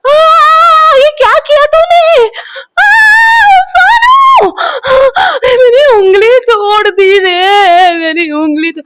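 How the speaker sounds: very high wailing shriek of pain; crying scream. Retold or imitated. Mother with a broken finger, wailing and crying at her daughter. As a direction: wail through tears, far up in pitch. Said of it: "रो रो के चिल्ला रही है".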